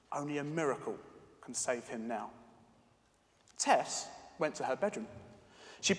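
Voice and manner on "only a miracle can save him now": whispered desperation. A narrator's reading. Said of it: "with whispered desperation".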